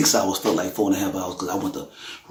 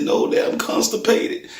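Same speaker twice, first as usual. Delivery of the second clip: put-on high, whispery little-girl voice; imitating his daughter; 14 semitones higher, slower than usual. Father mimics sick daughter's answer, high and whispered. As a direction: voice the child high and breathless on the punchline. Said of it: "She said".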